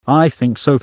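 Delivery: said loudly. Acted. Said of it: "I said loudly".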